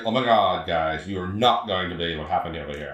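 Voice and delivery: mock Valley-girl gossip accent; Valley talk. Shown as a demonstration. Host showing co-host what valley talk is, Valley accent. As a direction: play a gushing Valley speaker. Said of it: "valley talk, 'cause I'd be like".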